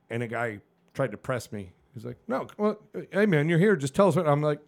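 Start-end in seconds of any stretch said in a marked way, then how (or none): 2.3-4.3 mock pushy guy. Mimicking pushy group member.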